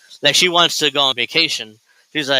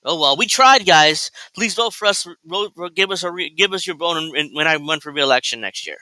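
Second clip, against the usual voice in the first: mock politician; 3 semitones higher than usual. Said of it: "and then it's like".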